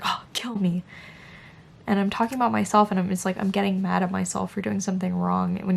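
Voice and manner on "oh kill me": breathy muttered "Oh, kill me"; whispered groan. Retold or imitated. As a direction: sigh it out under your breath at yourself. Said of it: "I'm just like".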